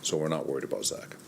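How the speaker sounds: winded, short of breath. Real, not acted. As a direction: talk while catching your breath. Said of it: "I'm a little winded".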